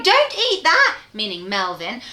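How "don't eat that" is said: high, loud alarmed cry; cried out. Acted. Mum rushing in to stop her son eating the sausage, a high loud cry. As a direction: stop him before he eats it. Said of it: "she cried".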